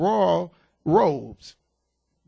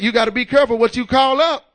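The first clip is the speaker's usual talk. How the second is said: urgent warning; 5 dB louder, faster than usual. Real, not acted. Repeated moral, louder.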